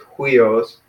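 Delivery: "huios" with an audible H, hwee-os; rough breathing. Shown as a demonstration. Teacher repeating the correct form, aspirated start. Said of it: "with the H in front".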